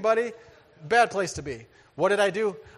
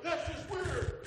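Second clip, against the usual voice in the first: dismissive; 12 semitones higher, 8 dB quieter, much slower than usual. Retold or imitated. Opponent dismissing him.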